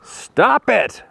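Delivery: high-pitched mock yell; retold yell. Comic shrink cuts off his frightened patient, mock yelling. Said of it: "and he yells".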